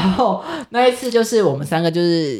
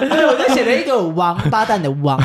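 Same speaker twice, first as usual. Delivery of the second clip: laughing; 3 semitones higher than usual. Real, not acted.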